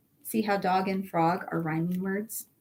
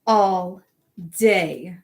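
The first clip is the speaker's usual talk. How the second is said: all day, low and leaning on both words; drawn-out all day; 5 semitones lower, 5 dB louder than usual. A narrator's reading. Narrator reads how the hamster talks all day, stretched out. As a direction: stretch it out, weary of the noise.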